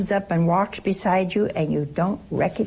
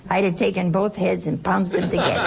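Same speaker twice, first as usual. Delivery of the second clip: laughing; faster than usual. Real, not acted. Laughing at own joke.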